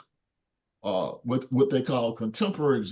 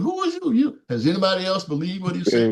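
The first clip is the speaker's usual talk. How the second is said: scoffing Pharisee; 3 semitones higher than usual. Retold or imitated. Pharisees questioning Jesus, acted.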